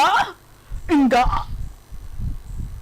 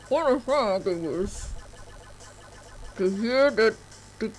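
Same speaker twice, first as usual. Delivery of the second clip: voice changer; 3 dB quieter than usual. Acted. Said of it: "using a voice changer".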